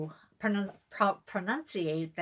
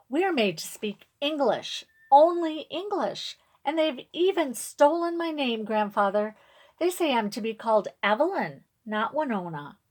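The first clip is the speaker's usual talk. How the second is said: tearful upset; 5 semitones higher, 5 dB louder than usual. A narrator's reading. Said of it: "tears that I feel running".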